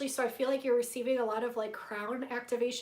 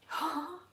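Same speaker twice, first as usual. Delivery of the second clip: gasp; 6 semitones higher than usual. Real, not acted. Reacts to viewer's sighting.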